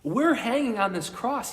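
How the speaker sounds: loud, high scolding cry; indignant rebuke. Acted. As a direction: rebuke the other man hard. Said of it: "rebukes him".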